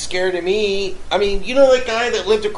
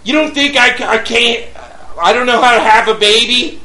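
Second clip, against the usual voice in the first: indignant retort; 4 semitones higher, 3 dB louder than usual. Retold or imitated. Mock retort to the neighbor.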